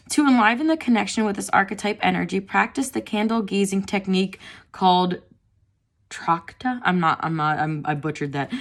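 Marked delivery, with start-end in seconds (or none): 0.1-6.8 reading aloud. Acted. Reads guidebook text.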